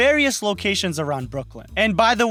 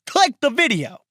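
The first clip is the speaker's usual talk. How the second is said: mock shout; 5 semitones higher than usual. Host yelling at viewers to click, mock shout. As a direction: bark the order at the viewer.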